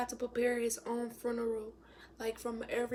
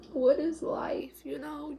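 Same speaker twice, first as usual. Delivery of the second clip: slow, louder, higher outcry; anguished cry; 4 semitones higher, 6 dB louder, slower than usual. Real, not acted. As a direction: throw the question at the sky. Grieving, asking aloud.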